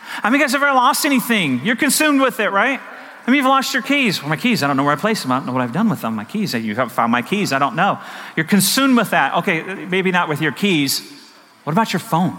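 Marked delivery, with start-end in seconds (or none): 4.2-8.0 lightly acted fretting, lower and hurried; mock flustered searcher. Preacher acting out someone who lost their keys, mock flustered. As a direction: mutter quickly as if hunting for something.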